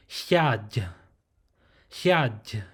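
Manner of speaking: hiaj said slowly with a breathy h and a closing j; closed syllable hiaj. Shown as a demonstration. Teacher demonstrating hiaj for learners, slow and breathy. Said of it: "with more like a closing G sound".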